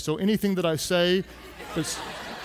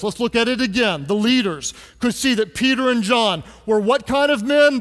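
ordinary talk

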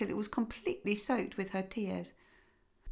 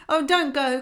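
mild fearful cry; 6 semitones higher, 7 dB louder than usual. Acted. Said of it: "cried the wife".

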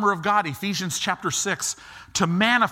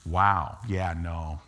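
hushed, much lower, sheepish; sheepish relief; 11 semitones lower, 5 dB quieter than usual. Retold or imitated. Born-again believer before Jesus, hushed and sheepish. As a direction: mumble it like you just dodged trouble. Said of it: "they're gonna be like".

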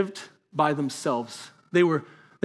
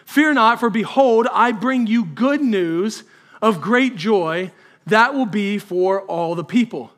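loud and slow, a grand announcement; angel proclaiming; 3 semitones higher, 4 dB louder, slower than usual. Acted. Angel announcing great joy to the shepherds, loud and slow. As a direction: proclaim it slowly and loudly.

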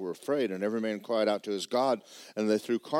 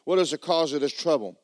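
frightened sailors; 6 semitones higher, 5 dB louder than usual. Acted. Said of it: "And they said".

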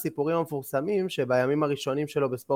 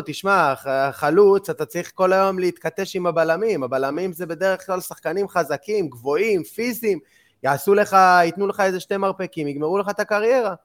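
higher-pitched, insistent imitation of a coach; coach's warning; 5 semitones higher than usual. Coach explains to young striker why he plays winger, imitated insistent warning. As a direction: retell a coach talking a kid out of it.

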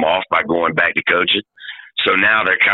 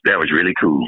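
Walt Frazier impression; 2 semitones lower than usual. Shown as a demonstration. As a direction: say cool again, same lazy way. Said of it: "Say cool again".

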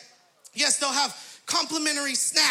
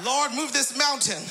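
mock prayer shout. Comic prayer about tight squeeze.

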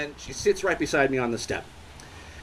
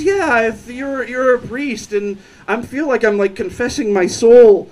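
imitated drunk, swelling louder at the end; drunk woman; 3 semitones higher, 6 dB louder than usual. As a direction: lightly play a visibly drunk woman confessing. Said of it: "So drunk that at one point she's like".

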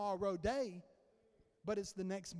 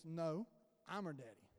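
low, hushed, firm correction; Holy Spirit's correction; 7 semitones lower, 7 dB quieter than usual. Retold or imitated. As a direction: drop low and soft to correct, imitating a divine voice. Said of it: "He goes".

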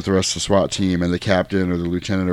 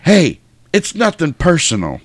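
slow, higher-pitched villain quote; drawn out, mock-casual villain; Dennis Hopper; 8 semitones higher than usual. Bad guy to the guard he stabbed, slow mock-casual. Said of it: "And he's like".

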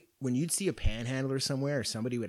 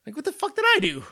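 retold disbelief; 12 semitones higher, 5 dB louder, faster than usual. Retelling own shocked reaction.

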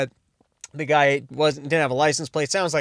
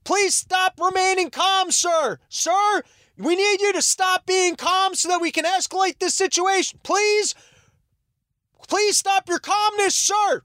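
much higher, squeaky mock cop voice; mock cop falsetto; 12 semitones higher than usual. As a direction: parody the cops in a silly high falsetto. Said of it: "they're like".

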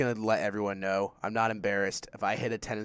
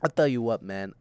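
a hint of a folksy coach, a bit louder; John Gruden impression; 3 semitones higher, 6 dB louder than usual. Host slips into the coach's catchphrase, lightly voiced. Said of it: "we might as well just go full John Gruden".

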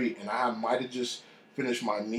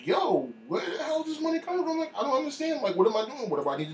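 mock panic; 14 semitones higher, faster than usual. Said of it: "they're panicking".

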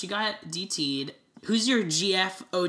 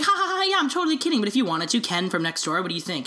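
Kim Davis impression; 3 semitones higher, faster than usual. Mocking the clerk as she jokes to her husband, lightly voiced and giggly. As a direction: play it off with a laugh, then slyly pitch the idea. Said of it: "That's my impression of Kim Davis".

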